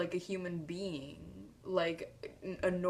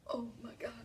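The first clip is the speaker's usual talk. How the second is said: starstruck whisper; 5 semitones higher, faster than usual. Retold or imitated. Sees Sophia walk by.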